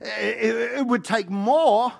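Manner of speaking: slow, halting stammer; stuttering Philip. Acted. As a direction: Philip fumbling for the answer. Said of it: "Philip answers him and says".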